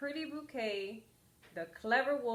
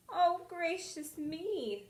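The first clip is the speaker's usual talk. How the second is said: prim surprise; 8 semitones higher, slower than usual. Acted. Girl surprised by the wolf.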